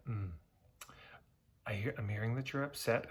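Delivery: whispered, mock-soothing therapist voice; mimicking therapist. Therapist answering an upset client in a mock whisper. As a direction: imitate a therapist's breathy, overly careful whisper. Therapist's reply in retold session.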